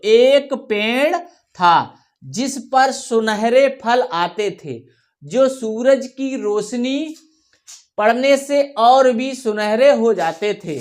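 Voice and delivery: slow, measured story reading; story read to pupils. Shown as a demonstration. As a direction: read word by word for children to follow. Reads sample story to pupils.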